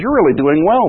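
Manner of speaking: sarcastic praise, lightly acted. Preacher paraphrasing James to a congregation, lightly sarcastic. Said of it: "and then he gets sarcastic".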